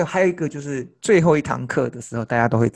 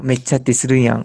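trying Kansai dialect; 4 dB louder, much faster than usual. Shown as a demonstration. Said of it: "不错不错".

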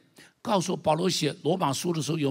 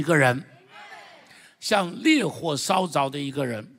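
loud, driving sermon voice; 激昂讲道; fiery preaching; 4 dB louder than usual. Acted. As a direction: preach it hard to the congregation. Preaching at full force.

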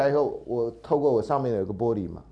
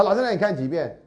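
surprised student; 8 semitones higher, 3 dB louder than usual. Retold or imitated.

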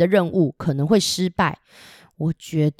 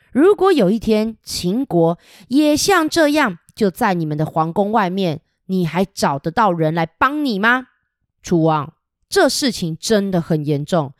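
forceful speech. Acted. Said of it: "非常大声的说".

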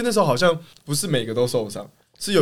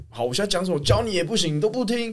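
mock sulky coach; 6 semitones higher, 3 dB quieter than usual. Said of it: "然后豪哥就会说".

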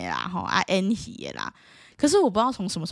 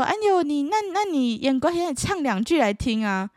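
high coaxing "哎呦" from a lightly voiced elder; mildly mocking a relative's request; meddling relative; 8 semitones higher than usual. Relatives at New Year asking the student to sing opera, light mock coaxing.

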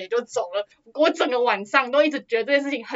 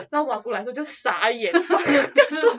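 laughing. Real, not acted. Laughing while retelling the aunt's reaction.

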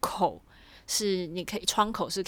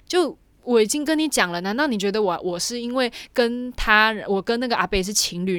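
louder, fed-up venting at the cop; indignant rant, half acted; retold exasperation; 2 semitones higher, 5 dB louder than usual. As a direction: replay the anger at being asked again. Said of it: "我已经要火大了".

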